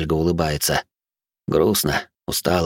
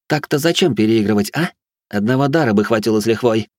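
bitter mad noblewoman; 5 semitones higher than usual. Acted. Batori's accusations.

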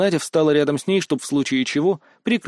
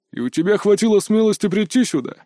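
angry guard; 5 semitones higher than usual. A narrator's reading. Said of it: "собеседник был реально зол".

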